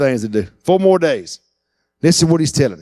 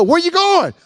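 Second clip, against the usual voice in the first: surprised question; 12 semitones higher than usual. Retold or imitated. Onlookers ask Lazarus.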